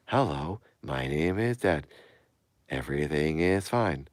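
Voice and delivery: lightly robotic male greeting; measured, mild robot voice; a hint of a reassuring robot; Dad character. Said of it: "when a guy says".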